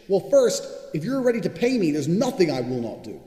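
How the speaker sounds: loud and high, hammering it home; insistent shout. Real, not acted. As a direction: shout the condition at them. Insisting rant on getting paid.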